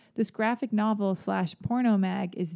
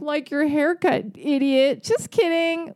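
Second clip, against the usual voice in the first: loud, high mocking jab, hammed-up; insulting sarcasm; 7 semitones higher, 5 dB louder, slower than usual. Shown as a demonstration. Host showing what nasty sarcasm sounds like, mocking sarcasm. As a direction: put on a high, loud taunting voice. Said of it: "Like, that's sarcasm".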